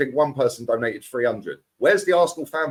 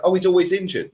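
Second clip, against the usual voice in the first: higher-pitched mimicry of a complaining fan; mock fan complaint; 5 semitones higher, 4 dB louder than usual. Pundit quoting fans on an injured player, lightly mocking. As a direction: lightly parody the fans' moan, pitched up. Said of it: "No, he ain't".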